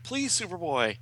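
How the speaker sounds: high pleading hero; acted high-pitched entreaty; Mon-El. A narrator's reading. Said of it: "Mon-El's like".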